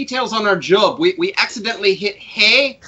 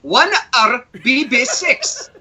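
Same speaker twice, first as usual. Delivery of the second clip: slow and careful; slower than usual. Real, not acted. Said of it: "Please repeat".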